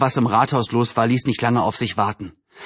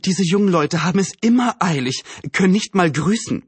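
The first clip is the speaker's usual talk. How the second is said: higher, mildly indignant complaint; lightly voiced indignant neighbour; 6 semitones higher than usual. Neighbour complains about hurried young people, mildly indignant. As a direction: grumble lightly as a fussy neighbour. Narrator voices Frau Hoffmann.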